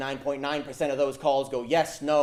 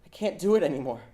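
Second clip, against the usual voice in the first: higher, a little louder, breaking down; despairing girl; 4 semitones higher, 5 dB louder than usual. Acted. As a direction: give up out loud as the scared girl. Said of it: "young, scared voice".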